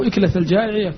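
أكلة said ikla, with an i; first vowel of أكلة as short i; kasra on first letter. Shown as a demonstration. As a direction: pronounce أكلة with kasra on the hamza. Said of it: "لبيان الهيئة يكسر".

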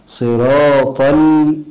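slow صراط ال- with the l pressed and held; pressure on lām. Shown as a demonstration. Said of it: "يحدث نبرا وضغطا على الحرف".

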